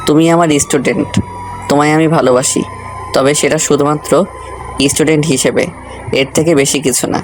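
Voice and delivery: even, composed reply; calm voice. Acted. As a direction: let them down calmly, keeping an even tone. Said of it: "রোদ শান্ত গলায় রোজকে উদ্দেশ্য করে বলল".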